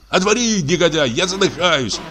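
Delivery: high, choking cry; hoarse shout. A narrator's reading. Patient choking out a cry at the door. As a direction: yell as if suffocating. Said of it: "крикнул он сиплым голосом".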